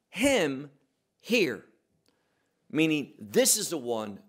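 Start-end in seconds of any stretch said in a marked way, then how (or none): 0.1-1.6 "him" punched and set apart from hear; stress on HIM. Shown as a demonstration. Preacher rereads the voice from the cloud, stress on HIM. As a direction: hit the word him, then pause before hear. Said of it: "Him is emphatic".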